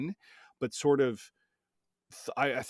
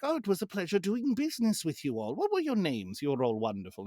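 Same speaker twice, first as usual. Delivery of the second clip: higher, hammed-up French accent, oily and polite; a gushing French merchant, much higher than his own voice; 9 semitones higher than usual. The fiend thanking the party after a trade, in a put-on French accent. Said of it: "He has a French accent".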